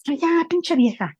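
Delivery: high, drawn-out exasperated mock yell; grito imitado. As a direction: imitate a rude daughter yelling at her mother, slowly and high. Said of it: "le grita y le dice". (grito grosero imitado, agudo y alargado)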